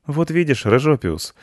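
put-on relieved, delighted child; overjoyed. A narrator's reading. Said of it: "обрадовался мальчик". (радостный мальчишеский голос)

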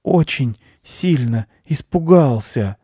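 high, slow, halting hare voice; weakened hare confessing fear; frightened hare. A narrator's reading. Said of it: "тихо прошептал заяц".

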